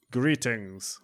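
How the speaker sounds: lightly put-on Russian accent, stiff and formal; bad Russian accent. Reading a hacker's email in a bad Russian accent. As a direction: read the scammer's greeting in a mock Russian accent. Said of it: "which is where the funny accent comes in".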